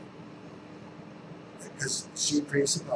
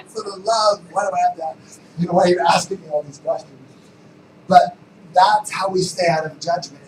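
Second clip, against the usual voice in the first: lingering exasperation; 4 semitones higher, 10 dB louder than usual. Retold or imitated. Continues rant.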